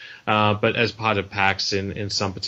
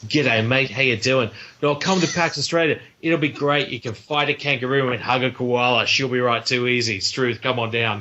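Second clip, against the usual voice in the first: hammed-up bogan Australian accent, Steve Irwin style; full-on Australian accent. Selling Australia to developers in an over-the-top Australian accent. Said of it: "the most full-on Australian accent".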